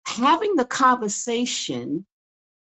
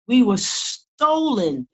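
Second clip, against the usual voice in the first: "stolen" drawn out slowly and weighted; stress on stolen; slower than usual. Real, not acted. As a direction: lean hard on "stolen", say it slowly. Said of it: "I emphasize the word stolen".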